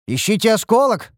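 high-pitched eager command; acted avid excitement; greedy eagerness. A narrator's reading. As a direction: urge them on to find the treasure, pitch jumping up. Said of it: "алчно блеснули мои глаза".

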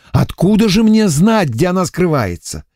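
a prisoner pleads his innocence; whiny emissary. A narrator's reading. Эмиссар жалуется лейтенанту, ноющим голосом.

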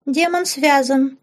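put-on high, slow childish voice with a giggle; giggling little girl. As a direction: tease sweetly like a small girl. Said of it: "хихикнула девочка".

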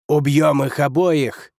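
slow, snarling growl. Acted. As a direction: growl it at the other lords. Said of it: "прорычал Гулян".

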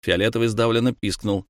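plain reading voice

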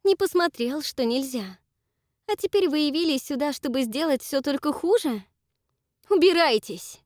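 high and loud, building to a yell; angry outburst ending in a shout; rising fury. Acted. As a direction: drive her mother out. Dakota rages at Esther.

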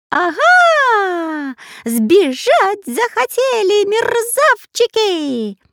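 very high, loud, slow parrot screech; shrieking parrot. Acted. Parrot screeching at escaping prisoners. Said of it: "закричал попугай Кутеплютев".

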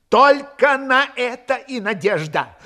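fervent insistence. A narrator's reading. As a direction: lean slowly on the last hope. Desperate officer repeats his last hope.

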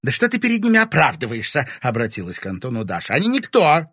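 scornful. A narrator's reading. Dasha scorns the police.

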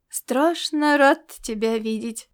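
slow, gentle warmth; slow soft greeting to the girl; softly. Acted. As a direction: say it tenderly and slowly. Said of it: "мягко проговорил он".

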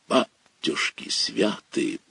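slow, breathless whispered gasp; awed whisper. Acted. Narrator hears of a big fish, awed slow whisper. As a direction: hush it out in awe.

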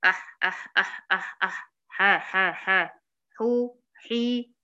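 أح and ح breathy from mid-throat, حو حي slow; ح drill. Shown as a demonstration. Teacher drills ح with the students. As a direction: push ح out of the throat. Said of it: "ما أقولش أح".

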